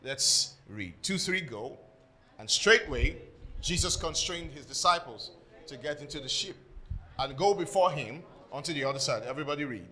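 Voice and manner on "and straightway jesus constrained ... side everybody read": measured Bible reading in phrases; scripture reading. Acted. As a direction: read scripture out to the congregation. Reads scripture aloud to congregation.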